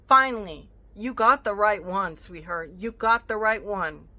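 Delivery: loud, emphatic, leaning on "got"; triumphant warning to the scammer; telling off the thief, loud and proud. Real, not acted. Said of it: "raise my voice like I am now".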